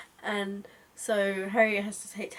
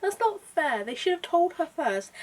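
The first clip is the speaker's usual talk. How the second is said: indignant outburst; 10 semitones higher, 8 dB louder than usual. Retold or imitated. Reader raging that Harriet isn't paid, high and loud. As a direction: rant at the injustice. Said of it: "you're just like".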